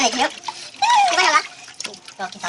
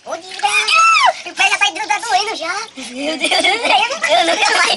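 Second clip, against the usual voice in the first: pained, freezing in the tub; in ice cold water; 2 semitones higher than usual. Real, not acted. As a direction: groan through the cold pain. Feet aching in ice.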